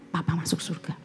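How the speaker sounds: barely voiced, as if it's a holy secret; hushed whisper. Preacher tells the church papa is saved, whispered. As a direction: breathe it out in an awed whisper. Awed revelation of father's salvation.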